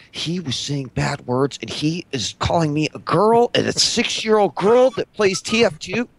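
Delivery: lightly voiced tattling child; a hint of an aggrieved little kid; Mini Wheat. Son reporting name-calling to parent, mildly childish complaint. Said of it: "Mini Wheat, what".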